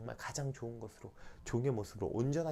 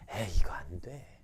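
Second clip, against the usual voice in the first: doubting mutter; 7 semitones lower, 3 dB louder, slower than usual. Retold or imitated. Voicing a doubting believer.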